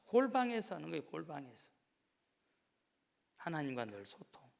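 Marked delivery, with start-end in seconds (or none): 0.0-1.1 골방에서 pushed up fast and loud; quick, higher and louder. Acted. Repeated phrase. 1.1-1.7 골방에서 dropped low and hushed; whispered 골방에서; soft echo. Acted. Repeated phrase.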